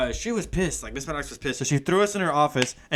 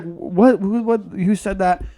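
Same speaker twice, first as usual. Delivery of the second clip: mock pissed teacher; 2 semitones higher, slower than usual. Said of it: "she was all pissed".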